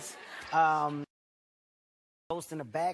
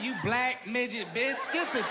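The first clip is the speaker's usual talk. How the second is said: laughing imagined insult; 6 semitones higher than usual. Retold or imitated. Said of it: "She's like".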